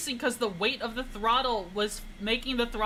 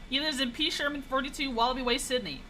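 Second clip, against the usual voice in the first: 1 Finding Nemo quote; 3 semitones higher than usual. Retold or imitated. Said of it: "a Finding Nemo reference".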